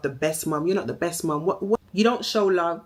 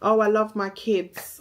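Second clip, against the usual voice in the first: mocking; 4 semitones higher, slower than usual. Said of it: "act like she's the perfect mum".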